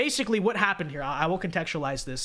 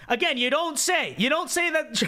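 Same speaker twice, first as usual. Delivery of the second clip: sarcastic; 9 semitones higher than usual. Acted. Sarcastic reaction.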